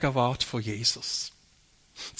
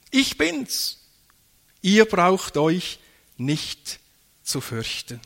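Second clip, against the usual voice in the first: voice of Jesus calling; 2 semitones higher, slower than usual. Acted. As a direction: call out reassuringly across the water. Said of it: "rief er". (Jesus ruft beruhigend, langsam)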